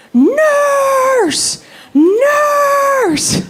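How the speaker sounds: high, loud cry of Nurse; shouting for the nurse. Retold or imitated. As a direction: call out in mock alarm for the nurse. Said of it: "she just starts shouting".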